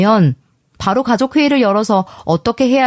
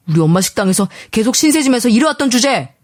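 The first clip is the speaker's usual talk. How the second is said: husband's scornful jab with falling end; angry accusation; 2 semitones higher than usual. A narrator's reading. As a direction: throw it out as a contemptuous accusation. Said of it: "이런 식으로 화부터 내더라고요".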